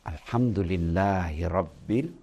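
sincere whispered-down thanks to God; heartfelt praise. Shown as a demonstration. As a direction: gratitude with a hand on the chest. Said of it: "baru ucapkan".

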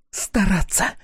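one high, contemptuous word; spat out. A narrator's reading. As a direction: throw it in her face. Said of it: "выплёвывает Тея".

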